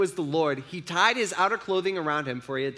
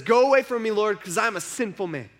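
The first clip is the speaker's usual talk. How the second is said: louder, higher cry of unworthiness; anguished plea; 4 semitones higher, 5 dB louder than usual. Retold or imitated. Peter on his face begs Jesus to leave, louder. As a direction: beg him away in shame.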